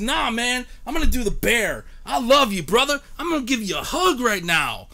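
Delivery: mildly hammed-up dude voice; bro talk. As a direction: play a hype dude pulling his buddy into a hug. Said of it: "We didn't talk like that".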